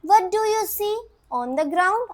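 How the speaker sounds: slow textbook question voice; teacher's question. Retold or imitated. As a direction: ask it slowly like a teacher to the class. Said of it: "question पूछा teacher ने".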